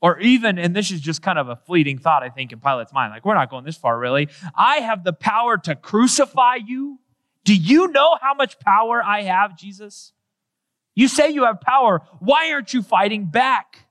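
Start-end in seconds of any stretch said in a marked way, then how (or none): 4.5-13.8 taunting Pilate. Acted. Pilate taunting Jesus voiced.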